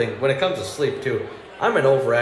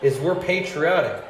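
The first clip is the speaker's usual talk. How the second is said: higher-pitched defensive protest; indignant patriot; 4 semitones higher than usual. Retold or imitated. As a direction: earnestly list your rights with rising indignation. Acted patriotic protest in misunderstanding.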